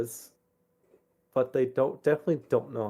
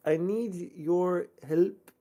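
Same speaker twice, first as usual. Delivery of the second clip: slow, slightly raised letter voice; lightly voiced letter writer; 8 semitones higher, much slower than usual. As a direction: read it like a pleading parent. Reads letter in character voice.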